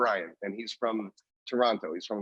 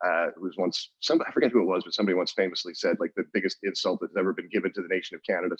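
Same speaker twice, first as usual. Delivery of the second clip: usual speaking voice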